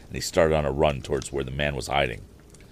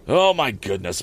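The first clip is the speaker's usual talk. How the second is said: exclaiming housekeeper; 5 semitones higher, 5 dB louder than usual. Acted. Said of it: "exclaimed Missus Baggert".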